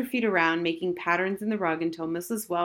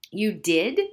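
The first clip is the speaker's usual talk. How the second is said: surprised, louder question; astonished; 4 dB louder than usual. A narrator's reading. Harriet to Old Golly about her lovely evening, astonished. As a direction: ask it in open astonishment. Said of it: "Harriet was astonished".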